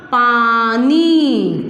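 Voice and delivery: drawn-out पानी, each syllable held long. Shown as a demonstration. Teacher sounding out a word for pupils, syllable by syllable. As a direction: stretch पानी slowly as पा...नी. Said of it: "शब्द क्या हो गया अपना?".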